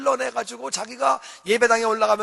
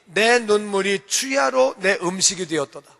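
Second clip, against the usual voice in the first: mournful reading. Shown as a demonstration. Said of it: "그렇게 말하니".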